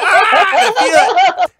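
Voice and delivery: high, slow, laughing cry; mock pained squeal, laughing; hammed-up yelp. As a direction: overplay the pain with a laugh. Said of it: "I'm like".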